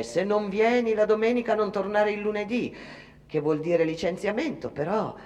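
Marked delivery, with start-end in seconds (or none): 0.0-2.7 lightly voiced boss, a bit higher; mock the boss's threat, half-hearted; imitating the boss. Worker quotes her boss's warning, lightly imitated. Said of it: "il boss ti dice".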